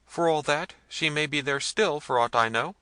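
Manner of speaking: high, loud protest; agitated high-pitched underling; anxious servant. A narrator's reading. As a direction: answer the master nervously. Servant argues with angry master.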